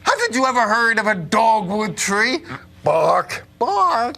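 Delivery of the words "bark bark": barking like a dog. Acted. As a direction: bark it out like a pup. Wolf pretending tree barks.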